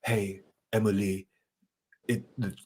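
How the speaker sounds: lightly voiced French character. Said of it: "the thing where they're like".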